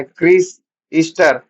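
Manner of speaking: loud battle call to his comrades. Acted. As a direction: shout their names to warn them. Warrior calls out in battle. (साथियों को ज़ोर से पुकारना)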